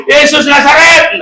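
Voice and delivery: high, drawn-out call; high-pitched crowd call; crying out. Acted. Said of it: "dia nggak berseru".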